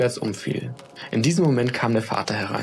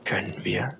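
soft, gentle whispered yes; a loving mother softly agreeing; kind; 2 semitones lower, 4 dB quieter than usual. Acted. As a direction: reassure the boy tenderly. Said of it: "sagte die Mutter freundlich".

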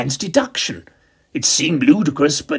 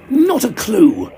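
breezy reply; 7 semitones higher, 4 dB louder, slower than usual. A narrator's reading. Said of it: "I replied".

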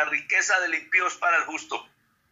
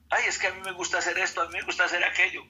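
whiny excuse; faster than usual. Acted. Believer excusing attachment to pleasures.

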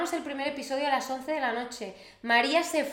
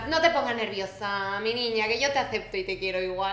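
laughing reassurance. Real, not acted.

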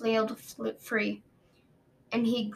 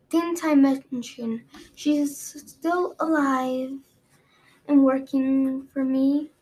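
slow gloating; 3 semitones higher, 3 dB louder, slower than usual. Acted.

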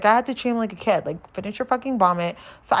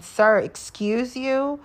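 very slow, higher, offended sass; sassy indignation; 5 semitones higher, much slower than usual. Real, not acted. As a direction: clutch your pearls at the nerve of him. He grabs her Listerine.

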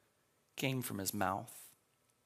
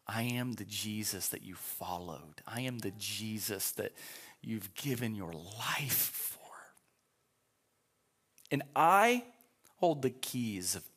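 hushed Jesus. Retold or imitated. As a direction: speak gently to a friend. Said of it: "Jesus looks at John and says".

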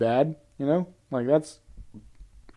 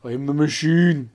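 hammed-up Russian accent with rolled r; comic Russian-accented catchphrase; 3 dB louder than usual. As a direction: put on a mock Russian accent. Mimics comedian's Mother Russia bit.

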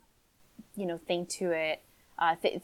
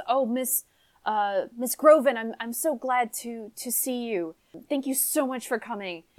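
a touch higher, grateful noblewoman; relieved lady; 4 semitones higher than usual. Acted. Mother thanking the returning helpers, mildly flustered.

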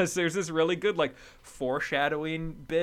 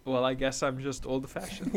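lightly voiced Eastern European femme fatale; mock Eastern European accent; 3 semitones lower, 3 dB quieter than usual. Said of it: "her response is".

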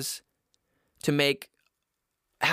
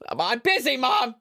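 mock annoyed son; 4 semitones higher than usual. Son answers mom's message mid-show, mock annoyed. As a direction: pretend irritated call to mom.

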